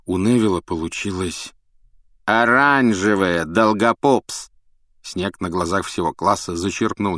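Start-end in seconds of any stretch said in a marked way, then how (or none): 2.2-4.5 cold sneering teacher. Acted. Snape scorns Neville's potion.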